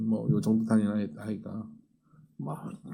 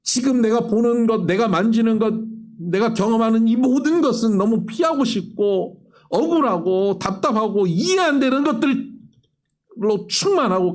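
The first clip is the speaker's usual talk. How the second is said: higher, louder preaching build-up; fervent preaching; 9 semitones higher, 5 dB louder than usual. Acted. Preacher naming the burdens of life to the congregation, fervent and loud. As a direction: pour it out from the pulpit.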